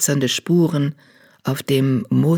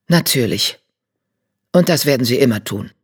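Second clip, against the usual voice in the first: lower, calm proud tomcat; 4 semitones lower than usual. A narrator's reading. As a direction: concede with dry pride. Eichenherz, lower voice.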